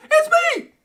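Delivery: very high, loud excited squeal; high-pitched scream. Pretend. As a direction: scream it way up high as a mock celebration. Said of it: "my voice gonna be so high".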